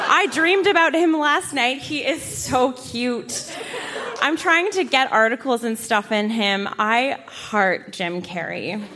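giggling through embarrassing lines; laughing while reading. Real, not acted. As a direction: read it trying not to laugh. Reading childhood crush entry.

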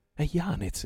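high, loud excited cry; exclamation. A narrator's reading. Pirate recognises a friend's ship, exclaiming high and loud. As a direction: burst out with the name, high and loud. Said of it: "esclamò egli".

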